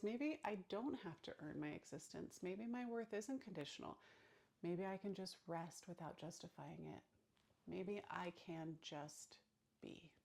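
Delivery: gentle inner voice. Pretend. Voicing new gentle inner belief.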